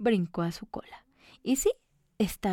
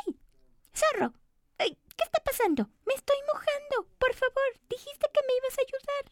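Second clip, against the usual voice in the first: high, squeaky cookie, whiny and worried; a tiny cookie fretting at the fox; high little cookie complaining she's getting wet; faster than usual. Acted.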